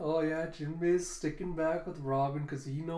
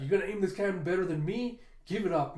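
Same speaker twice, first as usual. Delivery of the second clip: quick, slightly raised mock retort; snapping back; 4 semitones higher, faster than usual. Usopp defending his seat at the cannon, snapping back. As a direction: fire back a challenge. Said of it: "Usopp just snaps back".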